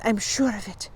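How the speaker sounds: softly sure; murmuring. A narrator's reading. Fanchon confirms the can to Encyclopedia, murmuring. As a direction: confide it quietly. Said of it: "Fanchon murmured".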